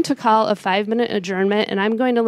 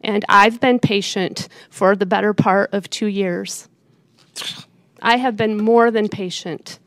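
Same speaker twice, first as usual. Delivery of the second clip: calm turning angry; slower than usual. Real, not acted. Mayor scolding commissioner.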